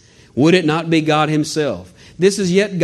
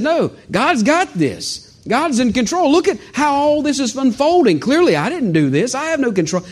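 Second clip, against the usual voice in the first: voicing Paul; 6 semitones higher than usual. Preacher voicing Paul's trust, high and confident.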